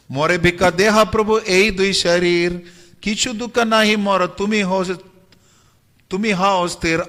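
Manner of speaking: measured, lilting verse delivery; scripture verse recitation. A narrator's reading. (लय में पद्य पाठ)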